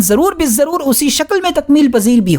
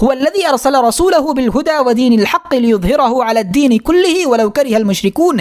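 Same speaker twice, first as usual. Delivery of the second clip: Quranic recitation. Acted. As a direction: intone the verse with reverence, set apart from the lecture. Quotes Quranic verse in lecture.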